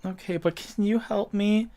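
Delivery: put-on high small-child voice; little boy. Game master as lost boy asking for help, little-kid voice. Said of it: "like, an eight-year-old boy".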